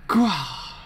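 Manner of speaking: acted growling cry; voiced manga effort noise; strained growl. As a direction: let out a drawn-out "grah". Reading manga, character's straining cry.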